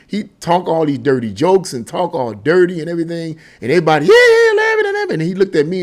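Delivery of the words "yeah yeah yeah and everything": much higher and louder chorus of agreement; laughing yes-men. Retold or imitated. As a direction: play the crew egging the boss on. Officers laughing along at dirty jokes.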